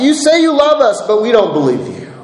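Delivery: high challenge dropping to disbelief; lightly acted doubters' retort; people's disbelieving response. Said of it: "that's their response here".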